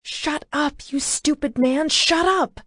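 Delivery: high, hammed-up shout; woman yelling at the stunned driver, high; angry yelling. A narrator's reading.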